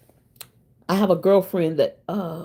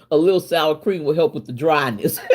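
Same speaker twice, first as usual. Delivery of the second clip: laughing while quoting; 2 semitones lower than usual. Retold or imitated. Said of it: "So what she said was".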